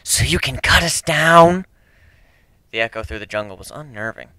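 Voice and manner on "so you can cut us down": slow, louder suspicious retort; lightly voiced wary stranger; hidden Romac voice. A narrator's reading.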